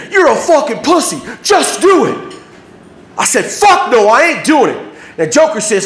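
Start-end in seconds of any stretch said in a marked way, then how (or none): 0.1-2.1 high-pitched retold yell; screaming taunt. Gang screams at the frozen kid, high taunting yell. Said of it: "And they're screaming". 3.4-4.8 angry refusal. Retold or imitated. Kid refusing the gang's order.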